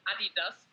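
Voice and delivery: ADIDAS said the German way; Adidas as Germans say it, stressed at the start; German pronunciation. Shown as a demonstration. Athlete explaining the German brand's name, German pronunciation. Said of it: "so we call it".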